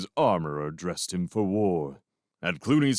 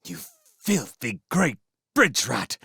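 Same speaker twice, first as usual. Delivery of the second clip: put-on an old vole spitting back an insult, rising to a loud cry; defiant outburst; 8 semitones higher, 4 dB louder than usual. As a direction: defy the captor to his face. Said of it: "glared defiantly at his captor".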